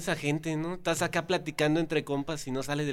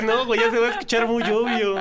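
higher, louder, excited retelling; 8 semitones higher, 5 dB louder than usual. Retold or imitated. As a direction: tell it with a rush of excitement. Retelling his own thought, excited.

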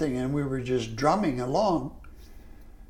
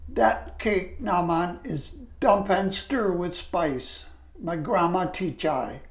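higher, slower Jamaican patois, lightly voiced; a hint of Evelyn's Jamaican lilt; 4 semitones higher than usual. Evelyn names her grandma's cake, light Jamaican patois. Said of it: "She said".

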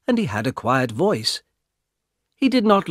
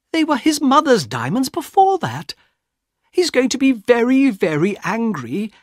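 put-on much higher, louder upset young woman; frightened sister; 10 semitones higher, 3 dB louder than usual. Young woman pleading with her brother, frightened and much higher. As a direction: beg him, scared of her husband.

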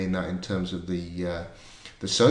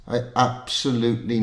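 put-on Scottish accent; 3 semitones higher than usual. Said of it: "I'm gonna do a Scottish accent".

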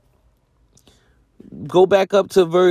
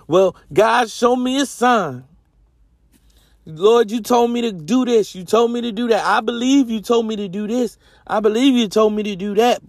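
higher, mock-whiny begging for a sign; imitating a needy believer pleading with God; 4 semitones higher than usual. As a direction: ham up a needy prayer.

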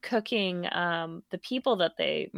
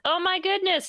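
high hammed-up grief, slowing on my husband; fake distraught wife; 12 semitones higher than usual. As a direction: ham up a wife faking shock to the police. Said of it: "And she's like".

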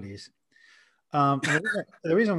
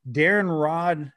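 slow and clear; 3 semitones higher, 4 dB louder, much slower than usual. Shown as a demonstration. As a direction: spell out the handle slowly. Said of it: "you can hit him at".

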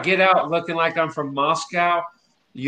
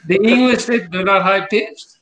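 mock Russian-English, pitched up at first; Russian-English accent; 4 semitones higher than usual. Explaining the English to friends, in a mock Russian-English accent. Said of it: "That's my Russian slash English".

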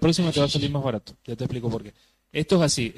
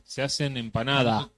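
quoting a sign. Retold or imitated. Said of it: "ves carteles que dice".

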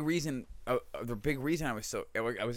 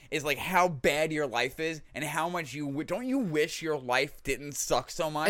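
infomercial; slower than usual. Retold or imitated. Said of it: "it's like an hour and a half".

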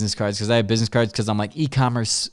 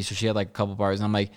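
usual speaking voice

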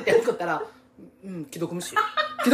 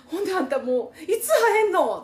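loud nosy osaka auntie; 8 semitones higher, 3 dB louder than usual. Retold or imitated. Mother voiced on phone.

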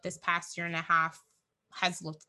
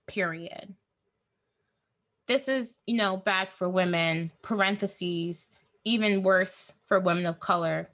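dictating; 3 dB louder than usual. Retold or imitated. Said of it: "Our whole life experiences get put between two punctuations".

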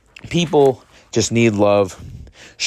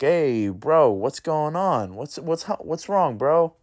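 higher, softer and slowed right down, gently asking a mate what's wrong; a worried buddy easing up to an angry stranger, higher and hushed; concerned friendly check-in; 5 semitones higher, 3 dB quieter, slower than usual. Retold or imitated. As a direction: coax him, soft and high, like you really care. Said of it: "And you're like".

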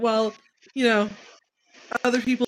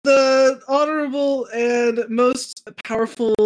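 grand proclamation; slower than usual. Acted. Grand slow introduction.

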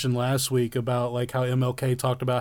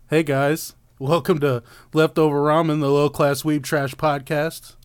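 commercial voice. Acted. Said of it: "did I do the commercial voice well?".

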